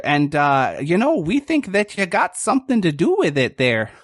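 buddy-buddy cop easing a suspect; Bortle's good cop voice. Acted. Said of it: "with this voice".

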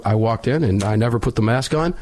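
ordinary delivery

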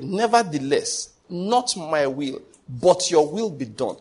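slow, drawn-out surrendering prayer; slow solemn prayer. Acted. Preacher quoting Jesus' garden prayer, slow and solemn. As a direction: let each phrase sink, very slowly.

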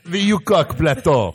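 slow, hammed-up Russian accent. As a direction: roll it out like a Russian. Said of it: "say that in a Russian accent".

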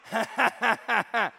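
loud mocking ha-ha-ha of a child; mimicked kid laugh. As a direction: imitate a kid's panting laugh, loud and even. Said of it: "this little kid's like".

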